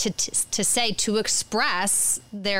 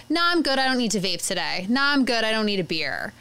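convincing, steady refusal; faster than usual. Acted. Kid turning down a vape or a beer, convincing steady refusal. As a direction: turn it down casually but surely. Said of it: "convincingly, more steadily".

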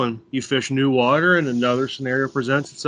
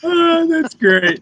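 mock enthusiasm; 6 dB louder, much slower than usual. Mock praise of intro.

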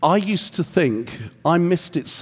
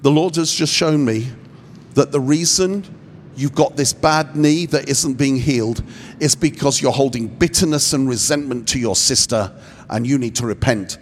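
heavy-handed pronouncement; 3 semitones lower than usual. Shown as a demonstration. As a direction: deliver it like a stern know-all. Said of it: "Here's how not to do it".

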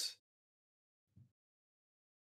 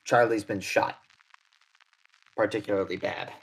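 Odette, grave; 6 dB louder than usual. Acted. Odette telling the professor Charlie's been shot, grave and louder. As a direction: deliver bad news to the professor urgently.

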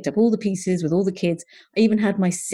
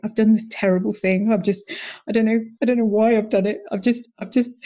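higher, rushed, anxious babbling; panicky confession; 4 semitones higher than usual. Retold or imitated. Wife confessing a pricey course to her husband, panicky. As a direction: blurt it out like you're confessing something awful. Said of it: "I was just like".

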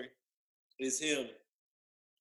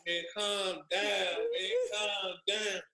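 raised-pitch retold appeal; mock pleading; 5 semitones higher, much slower than usual. Player retells trying to settle his naked teammate, mock pleading. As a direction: plead for peace in a high voice.

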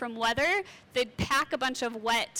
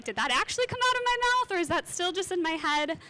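higher, fast panicky blurting; mock panic; 5 semitones higher than usual. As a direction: gasp it out as if caught thinking aloud. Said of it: "those worst fear moments when you're like".

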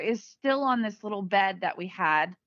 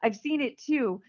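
relieved; 5 semitones higher than usual. Retold or imitated. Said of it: "And he was so relieved".

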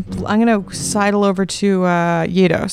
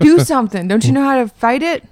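urgent demand; 4 semitones higher than usual. Acted. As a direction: push him to act now. Urging the NPC in game.

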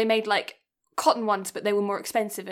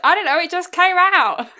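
higher and louder, helpless through a laugh; laughing embarrassed excuse; 9 semitones higher, 8 dB louder than usual. Retold or imitated. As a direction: blurt it out, half laughing at yourself. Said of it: "And I was like".

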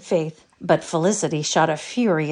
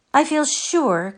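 hopeless tone; 9 semitones higher, slower than usual. A narrator's reading. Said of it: "concluded poor Sarah in a hopeless tone".

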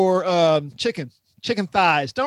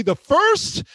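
imitating a newscaster; 9 semitones higher, slower than usual. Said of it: "Willie Geist kept saying".

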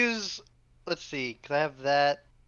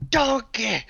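imitating gruff man; 5 semitones higher than usual. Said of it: "I heard that voice is like".

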